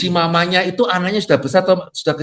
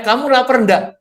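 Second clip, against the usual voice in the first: asking a man; 9 semitones higher, 4 dB louder than usual. Retold or imitated. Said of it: "Ya karena pria ditanya".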